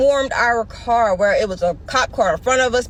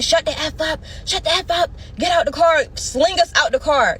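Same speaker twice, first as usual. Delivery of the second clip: retold yelling; 5 semitones higher than usual. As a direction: imitate officers yelling orders, without full volume. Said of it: "They're yelling".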